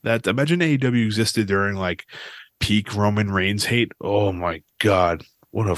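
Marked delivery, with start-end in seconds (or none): 4.0-5.8 slow, drawn-out disbelief; slow exasperated. Real, not acted. Podcaster remembering fan wars, slow and exasperated. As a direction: stretch it out in disbelief. Recalling Roman Reigns hate.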